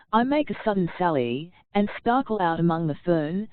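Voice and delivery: lively poem reading with light stressed beats; joyous poem recital. Acted. Reader practising the brook poem for vivacity, joyous recital.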